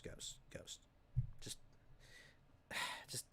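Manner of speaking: hushed, breathy father's whisper with a sigh; whispered aside. Retold or imitated. Dad pulling his son aside, whispering. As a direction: lean in and keep it between you two.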